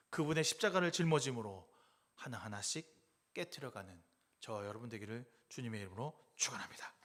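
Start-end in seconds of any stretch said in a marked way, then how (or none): 2.1-6.9 hushed, breathy benediction; whispered blessing. Acted. Pastor blessing the congregation at the close, whispered.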